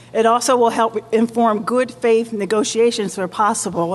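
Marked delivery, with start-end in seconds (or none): 3.3-3.9 possible given a firm, deliberate stress. Real, not acted. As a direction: lean on the word possible so it stands out. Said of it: "and I stress the word possible".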